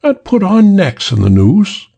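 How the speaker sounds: high, shocked woman's question; feminine voice. A narrator's reading. Woman objecting to the killing, high and alarmed. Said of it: "The feminine voice".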